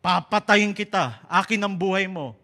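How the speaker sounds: loud, menacing demon voice; demon threat. Acted. Demon threatening the five-year-old in his dream, loud and menacing. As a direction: boom it out like the demon in the nightmare. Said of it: "Sasabihin niya".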